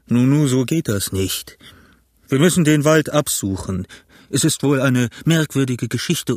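a gruff pirate captain steadying his crew; shaky bravado, talking the men round; lightly voiced pirate chief; Silver the pirate. A narrator's reading. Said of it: "sagte Silver".

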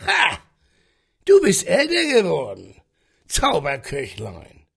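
put-on rough, booming old captain; growling sea captain. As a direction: growl it from the chair. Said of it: "Seine knurrige Stimme".

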